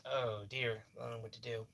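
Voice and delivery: quiet oh dear, unsure what to do; worried hush. Retold or imitated. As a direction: let the worry pull the voice down. Remembering helpless worry.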